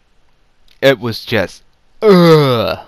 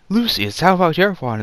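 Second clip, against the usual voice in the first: much higher, lightly voiced Voldemort demand; mock Voldemort; 8 semitones higher than usual. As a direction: toss the question down at him like a bored dark lord. Voldemort asking Lucius for wand.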